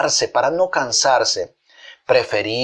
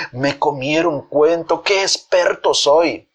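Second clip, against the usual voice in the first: mild self-satisfied boast; pleased trickster, a touch higher at the end; gloating after laughing; 3 semitones higher, slower than usual. Acted. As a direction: gloat lightly, stretching the final words. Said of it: "riendo dijo".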